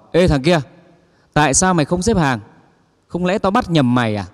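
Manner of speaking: loud, gruff telling-off from the king of hell; angry scolding. Acted. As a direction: bark at the man who won't line up. (quát lớn giận dữ)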